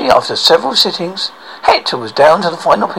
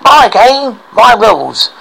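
gloating witch; 5 semitones higher, 4 dB louder, slower than usual. Acted. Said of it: "laughed the witch".

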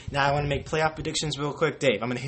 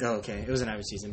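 bored shrug; 4 semitones lower, 4 dB quieter, much faster than usual. Retold or imitated. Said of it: "I was like".

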